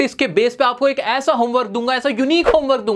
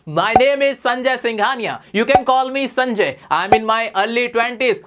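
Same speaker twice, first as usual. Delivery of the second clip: slow, clear, leading a class chorus; slow group drill; much slower than usual. Shown as a demonstration. Teacher leading students in chorus practice, slow and clear. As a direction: say it slowly so everyone can follow. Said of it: "चलो मेरे साथ बोलो".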